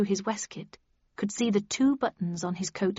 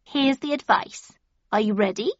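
Cheshire Cat; 4 dB louder than usual. Acted. Cheshire Cat gives advice.

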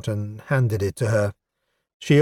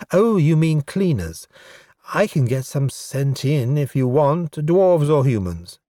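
a hint of an elf woman, pitched up; lightly voiced breezy elf; 4 semitones higher than usual. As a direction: offer help breezily in the elf's voice. Elf woman misunderstanding him.

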